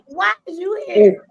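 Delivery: high, loud and slow why-are-you-here; exasperated shout. Real, not acted. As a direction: call out in disbelief as she shows up again. She came back again.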